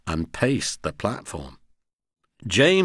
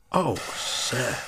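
soft, happily moved; happy; 4 dB quieter than usual. A narrator's reading. Old engine thanking the owner for promised mending, softly happy. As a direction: say it gently with pleasure. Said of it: "said Skarloey happily".

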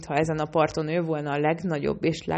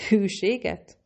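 indignant "Hűséget?" thrown back higher; snapped; 4 semitones higher, slower than usual. A narrator's reading. Cat snaps back at Nancy in outrage. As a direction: snap the word back in disbelief. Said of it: "csattant fel Cat".

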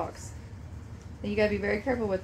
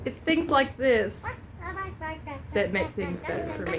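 choked up, voice dropping soft at the end; fighting back tears while thanking a friend; on the verge of tears; 2 semitones higher, 4 dB quieter than usual. Real, not acted. Mother thanking her best friend, close to crying. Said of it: "Sorry, I swore I would try not to cry".

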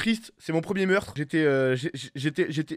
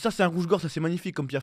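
dramatic film voice; 3 semitones lower than usual. Retold or imitated. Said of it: "une voix dramatique de film".

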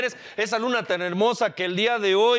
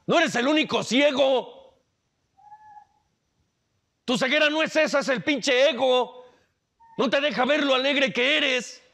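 loving mother; 7 semitones higher than usual. Acted. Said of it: "una madre amorosa, un Dios amoroso sería".

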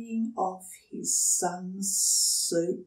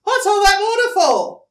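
much higher, louder and fast squeaky question; curious platypus; 14 semitones higher, 12 dB louder, faster than usual. Acted. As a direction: pipe up quickly. Platypus asks dingo.

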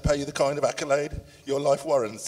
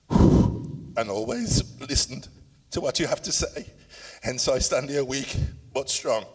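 real grief breaking through, with catching breaths; fighting back tears. Real, not acted. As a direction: push through the tears to the end. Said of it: "I will cry and stop".

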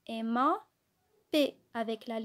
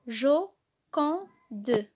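jo-quand-de said as three separate, louder syllables; 5 dB louder than usual. Shown as a demonstration. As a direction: sound out each piece for the children. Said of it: "L'association de ces trois syllabes donne".

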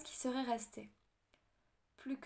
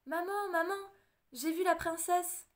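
put-on excited boy; 6 semitones higher, 3 dB louder than usual. A narrator's reading. Boy runs home excited.

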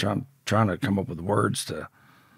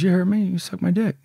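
raised, louder insistence; retold menacing demand; 11 semitones higher, 6 dB louder than usual. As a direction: imitate a bully pressing his order. Predator repeats demand, retold.

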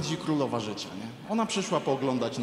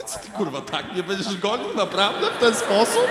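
rising, louder mock indignation; mock outrage; 5 semitones higher, 6 dB louder than usual. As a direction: build up the fake outrage, laughing. Retold outrage at chasing car. (narastające udawane oburzenie ze śmiechem)

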